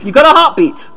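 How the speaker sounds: excited high call across the room. Retold or imitated. Doctor announcing a revived heartbeat, calling out. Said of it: "A doctor called out".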